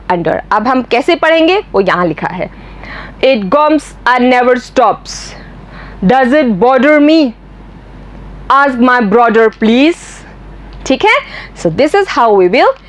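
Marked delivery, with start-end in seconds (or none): 3.2-7.3 slow, lightly put-on German accent; careful imitation of German-accented English. Shown as a demonstration. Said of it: "Mister Gessler would have said". 8.6-10.0 slow, lightly put-on German accent; drawn-out imitation of a German accent. Shown as a demonstration. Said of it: "Mister Gessler would have said".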